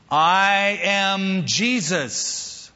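very slow, each word held; a lightning-bolt reveal, drawn out; slow weighty declaration. Acted. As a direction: lay down I am Jesus like thunder. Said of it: "like a lightning bolt".

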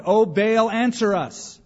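high, loud mock chant to Baal; high, loud imitated plea to Baal; imitating a frantic shout. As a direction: cry out like a frantic crowd. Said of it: "And they shouted".

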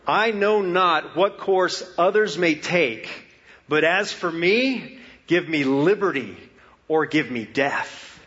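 stirring oratory. Shown as a demonstration. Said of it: "the immortal line".

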